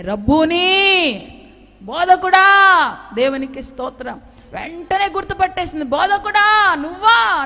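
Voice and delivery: slow, drawn-out, loud and high cry; joyful recognition cry. Acted. Mary recognising her risen teacher, with a loud joyful cry. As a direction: call out to him in joy.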